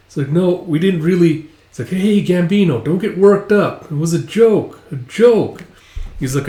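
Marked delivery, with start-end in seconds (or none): 0.3-1.5 raised, mildly flustered denial; lightly acted placating voice; nervous backpedaling. Backing down from angry leader. 1.9-5.6 high, louder pleading; acted flustered appeasement; nervous placating. Placating an angry leader.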